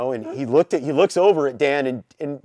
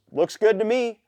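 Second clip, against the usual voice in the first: plain as day; 7 semitones higher than usual. Retold or imitated. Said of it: "just plain as day says".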